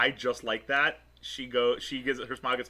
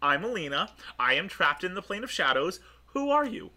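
higher-pitched, insistent introduction; firm, assertive; 5 semitones higher than usual. Acted. Alina introduces herself to the uninvited guests, assertively. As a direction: take charge of the room, pitched up. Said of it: "doesn't say that, like, aggressively".

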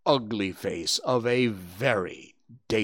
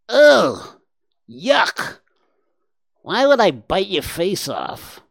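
high, loud nasal creature, disgusted; a wet-voiced warthog saying yuck; 9 semitones higher, 8 dB louder, slower than usual.

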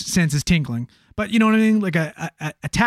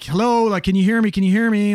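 raised, higher mock yell; half-yelled call to someone out of sight; 5 semitones higher, 4 dB louder than usual. Paramedic calling out to an unseen patient, half-yelling. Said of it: "I'm kinda yelling out".

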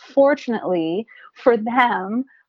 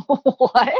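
puzzled daughter; 5 semitones higher, 5 dB louder than usual. Retold or imitated. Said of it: "My daughter will look at me like".

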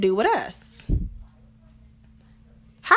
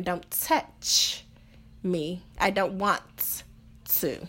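quiet cold rebuff; 3 semitones lower, 6 dB quieter, much slower than usual. Retold or imitated. Partner's cold rejection voiced.

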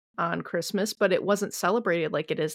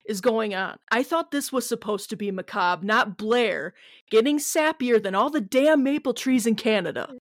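mock listener outcry; 3 semitones higher than usual. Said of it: "some of you right now are probably like".

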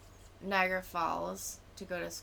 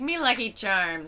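loud cartoon Irish leprechaun accent; fake Irish accent; 3 semitones higher, 7 dB louder than usual. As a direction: call it out in hammed-up Irish. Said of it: "as my fake Irish accent".

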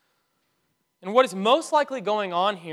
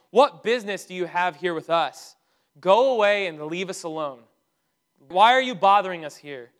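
forceful, louder retelling of the demon; retold scream; 6 dB louder than usual. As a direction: imitate an indignant outcry, not a full scream. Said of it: "he screams and essentially says".

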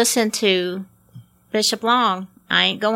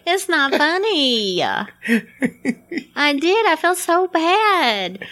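1 laughing protest; 6 semitones higher, much slower than usual. Real, not acted. Protests while laughing at herself.

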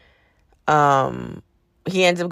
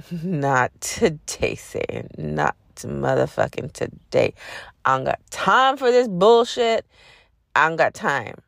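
sarcastic, with attitude. Retold or imitated. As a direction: brush off the spirit like a nuisance. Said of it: "sarcastically and with attitude".

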